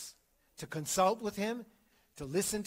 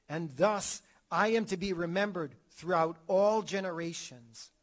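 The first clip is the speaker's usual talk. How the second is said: raised, booming voice of God; divine proclamation; 4 dB louder than usual. Acted. God commanding Moses to tell Israel, booming proclamation.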